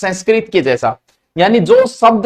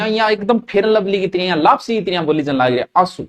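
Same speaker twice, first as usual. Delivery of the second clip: soft easy demo; 4 dB quieter than usual. Shown as a demonstration. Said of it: "आंसू बोले जोर को नहीं".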